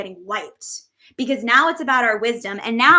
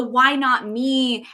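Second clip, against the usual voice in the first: quoted feeling; 3 dB louder, much slower than usual. Retold or imitated. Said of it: "Marissa says".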